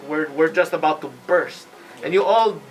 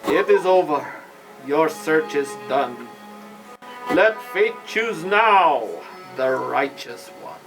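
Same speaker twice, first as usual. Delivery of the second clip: ghostly voice. Acted. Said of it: "you hear a ghostly voice".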